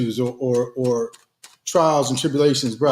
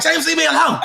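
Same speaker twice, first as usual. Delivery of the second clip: higher, laughing mimic of his wife; mocking wife; 10 semitones higher than usual. Husband teasing wife on air, mimicking her higher and laughing. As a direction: tease her by voicing her brush-off, laughing. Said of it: "and you like".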